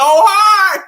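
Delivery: can barely get it out for laughing; laughing at the memory. Real, not acted. Laughing recalling being called out.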